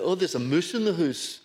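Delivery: lightly put-on Scottish accent; a hint of broad Scots. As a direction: slip briefly into childhood Scottish speech. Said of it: "I was born in Scotland".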